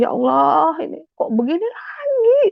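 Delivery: high, crying plea to God; tearful lament. Retold or imitated. Accused wife crying out to God at night, tearful lament. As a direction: let the pitch climb into a tearful wail. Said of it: "Saya nangis".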